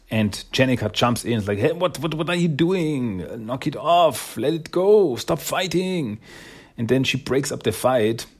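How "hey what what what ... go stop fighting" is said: mildly urgent, higher-pitched telling-off; lightly acted protest; acted intervention. Heroine breaks up a fight.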